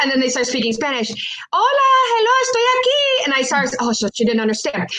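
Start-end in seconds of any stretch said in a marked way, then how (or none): 1.5-3.2 high, singsong bilingual call; acted calling out. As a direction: call out high to someone across a room. Acted calling out through the door.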